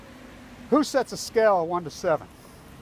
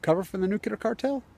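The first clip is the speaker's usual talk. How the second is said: retold angry retort; 3 semitones higher than usual. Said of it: "I says".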